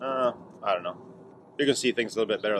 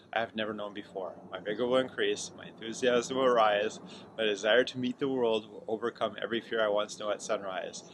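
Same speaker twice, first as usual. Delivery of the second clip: measured solemn reading of a creed; reading aloud; 3 dB quieter than usual. Acted. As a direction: read it like a personal vow. Reads scroll aloud.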